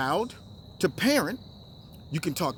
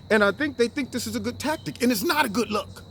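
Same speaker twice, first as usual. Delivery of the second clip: ordinary delivery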